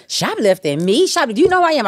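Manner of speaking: rising outraged disbelief; indignant Miami diva. Retold or imitated. Rapper accused of theft, outraged disbelief. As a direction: play the offended Miami star. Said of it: "so I got very Miami".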